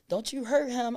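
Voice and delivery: imitating relatives scolding her; protective warning. Relatives defending him, loud mock scolding.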